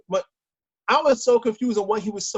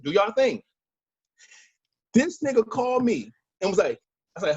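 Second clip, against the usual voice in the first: ordinary talk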